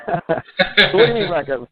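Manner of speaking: hammed-up disbelief, stretched slowly; mock incredulous. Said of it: "I knew you'd get that joke".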